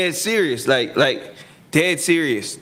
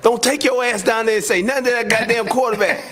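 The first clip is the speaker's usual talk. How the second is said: higher, laughing scold; mock coach scolding; 9 semitones higher than usual. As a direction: play the angry coach half-laughing. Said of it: "He was like".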